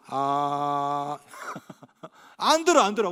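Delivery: mock stubborn refusal with a laugh; a hint of someone who won't listen; stubborn listener. Pastor mocking a spouse who refuses to listen, laughing mockery. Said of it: "대화할 때 이런 분 있어요".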